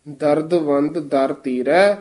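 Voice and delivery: ਦਰਦਵੰਦ as ਦਰਦ, tiny break, ਵੰਦ; said with a dash. Shown as a demonstration. Teacher showing the reciter, ਦਰਦਵੰਦ with a dash. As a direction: separate the two halves of ਦਰਦਵੰਦ slightly. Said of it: "dash ਦੇ ਕੇ ਬੋਲਣਾ".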